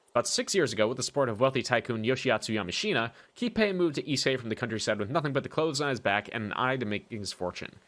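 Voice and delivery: soft, even reading-aloud voice; reading a profile. Acted. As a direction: read the dossier entry quietly. Reads character profile aloud.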